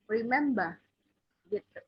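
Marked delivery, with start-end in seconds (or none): 0.1-0.7 remember with no final R, rimemba; British English remember, R silent; British accent. Shown as a demonstration. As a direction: drop the R at the end of remember, British style. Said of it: "Tapi kalau British accent".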